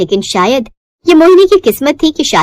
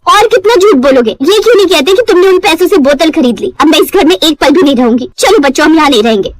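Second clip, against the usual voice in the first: nagging wife; 4 semitones higher than usual. Acted. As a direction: tell off the late husband. Wife storms out.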